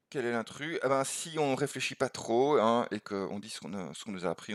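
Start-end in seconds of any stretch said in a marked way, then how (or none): 0.1-0.8 quiet repeat. Shown as a demonstration. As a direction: repeat it to yourself, softer.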